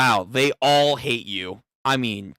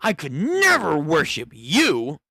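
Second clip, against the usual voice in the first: disgusted follower. Retold or imitated. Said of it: "He's even saying".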